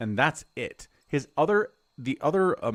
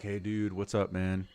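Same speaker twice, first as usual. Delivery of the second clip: surfer dude; 4 semitones lower than usual. Retold or imitated. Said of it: "like, a surfer dude aesthetic".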